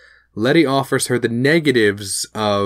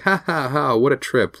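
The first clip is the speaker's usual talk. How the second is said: spoken mock laugh, higher; imitated laughing; 4 semitones higher than usual. Retelling Christina out of the water, mock laughing. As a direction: act out an amused ha-ha. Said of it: "laughing. She's like".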